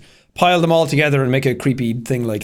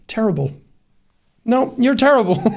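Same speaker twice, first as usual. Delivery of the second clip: nice prompting; 8 semitones higher than usual. Retold or imitated. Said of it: "so nicely just being like".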